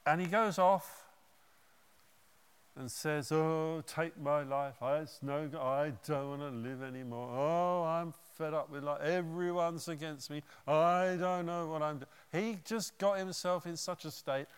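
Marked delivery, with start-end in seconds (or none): 3.3-12.1 a hint of self-pitying moaning; mildly mock the moping prophet; whinging. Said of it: "He's got into whinge mode".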